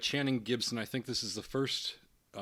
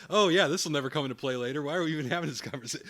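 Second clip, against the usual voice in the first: sarcastic mockery; faster than usual. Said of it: "It's like".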